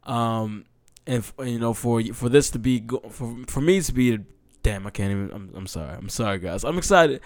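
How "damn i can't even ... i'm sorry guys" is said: quiet, emotional apology; fighting back tears, softer; real emotion catching the voice; choked up. Real, not acted. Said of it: "I'm a little bit emotional about this".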